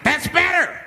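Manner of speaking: hammed-up creepy man pleased; creepy satisfaction. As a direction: purr it like a villain.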